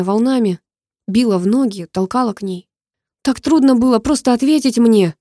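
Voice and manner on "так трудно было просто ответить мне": higher, louder reproach; angry question. Acted. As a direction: demand an answer, upset. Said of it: "спросил я". (раздражённый упрёк)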